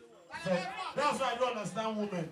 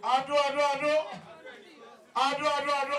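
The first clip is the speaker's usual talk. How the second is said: raised, repeated chanting shout; crowd shouting; 4 semitones higher, faster than usual. Retold or imitated. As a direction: imitate a rowdy chorus shouting a town name. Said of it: "I heard them shouting".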